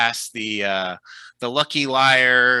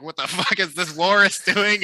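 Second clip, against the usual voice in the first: gruff fisherman; 7 semitones higher than usual. Acted. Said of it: "fishermen out on the dock are like".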